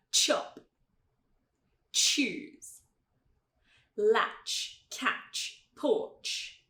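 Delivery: each word alone with an explosive CH: "Chop. Choose. Latch, catch, porch"; plosive tch. Shown as a demonstration. Teacher showing the difference, explosive CH in "Chop. Choose. Latch, catch, porch". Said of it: "Então olha a diferença".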